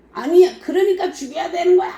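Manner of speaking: high, fast, laughing insistence; Sadducees demanding death; mocking Sadducee.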